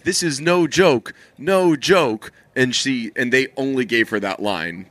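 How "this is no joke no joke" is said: mild retold yell, pitched up and slowed; mock yell. Quoting the movie line to the co-host, mild mock yell. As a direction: imitate her yelling, without much volume. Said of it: "she yells, like".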